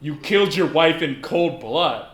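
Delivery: hammed-up Canadian eh on a grim line; mock Canadian eh. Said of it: "that's like the Tim Allen sound".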